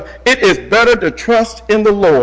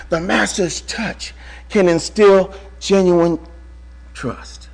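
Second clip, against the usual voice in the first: slow emphatic point; 4 dB quieter, slower than usual. Acted. Slow drawn-out sermon point.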